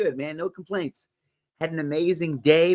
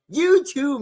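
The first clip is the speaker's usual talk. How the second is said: laughing through the words, high; 9 semitones higher, 5 dB louder than usual. Real, not acted. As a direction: giggle it out. Laughing at viewer's joke.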